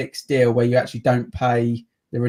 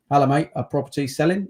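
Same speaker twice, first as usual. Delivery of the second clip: quick mock Australian gym mate; Australian accent; faster than usual. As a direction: toss it off in a jokey Australian accent. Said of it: "I don't know why I did that accent".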